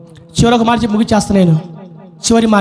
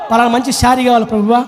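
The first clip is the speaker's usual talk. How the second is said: mock petitioner; faster than usual. Mimics petty tearful prayer requests.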